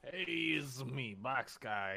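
a hint of a grumpy character voice; lightly voiced grumpy guy; dry prickly grumpy voice. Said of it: "this is the character's voice now".

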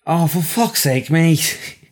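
high-pitched aggrieved Scouser; Scouse accent. Pretend. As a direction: play an outraged Liverpudlian punter, pitched high. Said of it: "a Liverpudlian, a Scouser".

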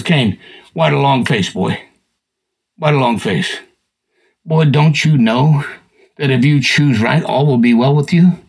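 low, slow, grave fatherly voice; God speaking to Cain. Retold or imitated. God warning Cain about sin, low slow counsel. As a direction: counsel a sulking son, slow and deep. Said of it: "God comes out and says".

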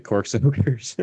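slow, mock Italian accent. Shown as a demonstration. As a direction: draw it out with a light Italian accent. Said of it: "in a very Italian voice".

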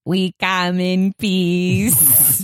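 slow, low, calm alien voice; calm breathy gray alien. Acted. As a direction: speak slowly like a calm alien. Alien speaks.

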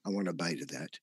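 a hint of a hungry monster, low and soft; hungry dinosaur voice. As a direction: drop low and quiet like a greedy beast eyeing a meal. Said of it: "Another dinosaur on looks and says".

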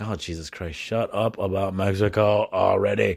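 a hint of a fed-up wife groaning; exasperated wife. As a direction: sigh it out, fed up with the stories. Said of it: "she's like".

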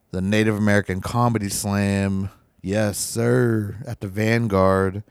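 strained, worn-out voice; hoarse voice giving out. Real, not acted. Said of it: "Sorry, my voice is giving out".

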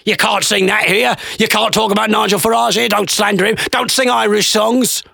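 high-pitched indignant heckler imitation; mock crowd shouting. Crowd objects to Farage jokes, high mock protest. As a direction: scold him like an offended pub crowd, high. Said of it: "they're all just shouting".

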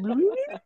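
high squeaky rewind noise; tape rewinding. Pretend. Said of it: "Look, the fake rewind noise".

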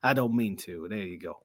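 lightly kept Dusty Rhodes voice; staying in the legend's voice, half-joking; mild Dusty Rhodes voice. Retold or imitated. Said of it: "now I'm gonna be talking like this".

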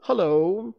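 high, loud friendly hello; cheerful, lifted hullo; amicable greeting. Acted. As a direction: toss back a friendly greeting. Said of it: "Peter replied amicably".

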